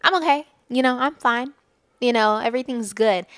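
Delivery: reflexive brush-off. Retold or imitated. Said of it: "our first instinct is to say".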